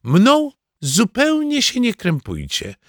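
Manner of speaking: high, slow, a hint of wounded grandma; grandma playing the martyr, slowly; offended grandma. Grandma telling family to ignore her, a touch hurt. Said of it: "powiedziała Bunia".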